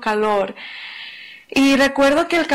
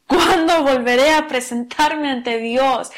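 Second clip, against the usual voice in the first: slow, pleading cry of "¿Cuándo?"; anguished cry; slower than usual. Shown as a demonstration. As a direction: stretch "¿Cuándo volveré a presentarme ante Dios?" into a longing plea. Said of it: "Es más un clamor". (clamor lento y suplicante)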